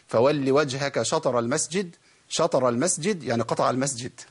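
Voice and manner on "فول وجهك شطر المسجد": slow recitation of شطر with the wrong vowel; wrong reading. Shown as a demonstration. Quran teacher demonstrating a common mistake, slow recitation. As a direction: recite شطر slowly as the mistaken reader does. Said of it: "زي ما، ما بعض الناس بيقول".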